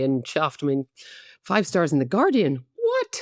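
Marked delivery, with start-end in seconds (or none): 2.8-3.2 surprised. Real, not acted. Disbelief at five stars.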